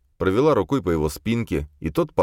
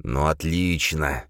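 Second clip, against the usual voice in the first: slow, hissed sarcasm; slower than usual. Acted. Khranka hissing at the girls, slow. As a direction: hiss it through anger. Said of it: "зашипел Хранка".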